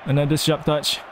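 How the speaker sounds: ordinary talk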